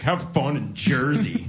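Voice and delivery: mock condescending. Editor's dismissive quote.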